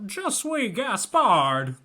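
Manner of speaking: slow, hammed-up French accent; mock French accent. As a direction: do a bad actor's French accent. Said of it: "hear him do a French accent".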